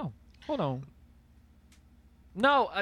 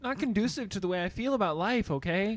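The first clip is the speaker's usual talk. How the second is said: white guy voice. Retold or imitated. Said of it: "white voice".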